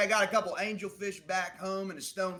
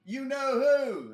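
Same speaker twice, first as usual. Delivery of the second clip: higher, louder hurried calling; calling across; 9 semitones higher, 4 dB louder than usual. Acted. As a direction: call it out fast across the shop. Clerk calls orders across shop.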